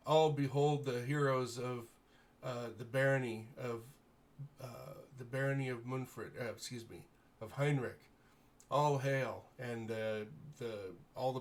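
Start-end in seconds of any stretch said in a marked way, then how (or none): 0.1-9.5 loud ceremonial proclamation; proclaiming to the court. Acted. Baron proclaiming the heroes to his court, loud and ceremonial. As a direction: announce the heroes to the whole hall.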